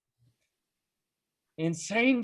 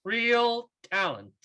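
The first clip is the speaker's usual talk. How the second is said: scornful; 6 semitones higher, slower than usual. Acted. Son mocks mother's words.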